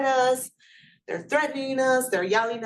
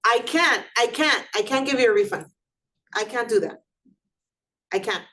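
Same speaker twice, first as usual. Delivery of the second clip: curt refusing clerk. Shown as a demonstration. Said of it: "a trigger phrase".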